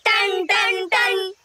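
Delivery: sustained, evenly spaced gong sounds; imitated bell strikes. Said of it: "पहले पैर का घंटा बज रहा है".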